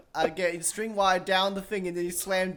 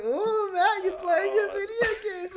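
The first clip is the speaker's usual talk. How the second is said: mock dad voice; 9 semitones higher than usual.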